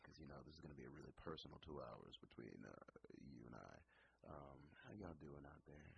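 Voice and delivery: smooth late-night DJ, slowed down; sexy voice. Pretend. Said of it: "let me get the sexy voice real quick".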